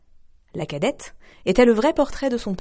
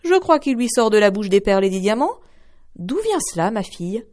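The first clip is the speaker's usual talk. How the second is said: astonished mother; 3 semitones higher, 5 dB louder than usual. Acted. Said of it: "tout étonnée".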